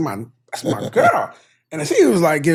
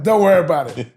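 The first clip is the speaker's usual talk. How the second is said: laughing, a little higher and hurt; hurt brush-off; 3 semitones higher, 4 dB louder than usual. Retold or imitated. Father to daughter, laughing and a little higher. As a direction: shrug it off with a laugh. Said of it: "And I was like".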